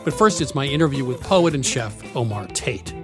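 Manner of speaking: lively radio show intro; upbeat travel show host. Acted. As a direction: announce the episode with energy. Show intro over music.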